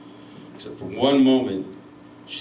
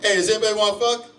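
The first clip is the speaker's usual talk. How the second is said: high, fast calling-out as an owl; owl yelling; 10 semitones higher, faster than usual. Retold or imitated. Owl advertising to the whole woods, high comic yell. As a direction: imitate a randy owl yelling out. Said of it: "He's out here yelling".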